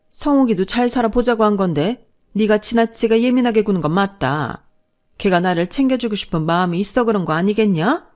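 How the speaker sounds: lightly voiced scolding mother-in-law; chiding mother-in-law. Mother-in-law defending her son to his wife, mildly scolding. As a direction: reproach her while defending your son.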